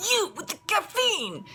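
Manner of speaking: imitated kid in a thick, high, drawn-out Italian accent; slow, high mock-Italian outburst. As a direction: accuse in a hammed-up Italian accent. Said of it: "In the thickest Italian accent".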